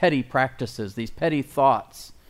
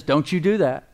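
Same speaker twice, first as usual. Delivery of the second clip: "Don't you do that" with the weight on "do"; a stern rebuke, hitting "do"; stress on DO; 3 semitones higher, 3 dB louder than usual. Shown as a demonstration. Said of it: "Law says".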